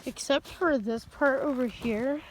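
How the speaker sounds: breathless after running, out of breath; short breaths between words, out of breath. Real, not acted. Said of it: "Sorry, I'm out of breath".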